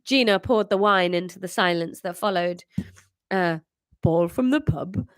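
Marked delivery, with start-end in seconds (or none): 3.3-5.1 put-on slightly deep teenage Welsh voice. Eighteen-year-old son questions his father, deepish voice. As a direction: say it a little too deep. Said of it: "It's a very deep voice for an eighteen-year-old".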